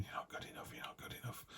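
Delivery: hushed, breathy whisper right in the ear; devil whispering. Retold or imitated. The devil whispering doubts into your ear, whispered. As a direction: whisper it like a tempter at your shoulder. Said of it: "the devil's whispering in your ear going".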